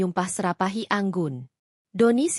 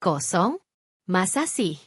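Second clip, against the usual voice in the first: feigned confusion. A narrator's reading. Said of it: "Anggun berpura-pura bingung".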